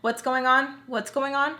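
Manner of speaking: mildly snippy repeated question; retold attitude. Tweezer walking in on the payment dispute, mild mock attitude. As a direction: lightly imitate someone walking in with attitude. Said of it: "she has, like, some attitude".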